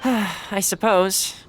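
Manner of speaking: sigh, then a slow grudging I suppose; reluctant sigh. Acted. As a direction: give in with a tired sigh. Reluctant agreement.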